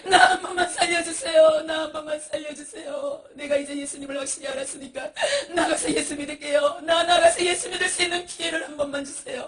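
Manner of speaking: desperate begging. Acted. Miser begging for rescue.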